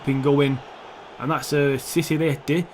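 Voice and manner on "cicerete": put-on a touch of Italian accent; lightly put-on Italian pronunciation. Gamer naming a player he guesses is Italian, light Italian accent. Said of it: "that's why the Italian accent".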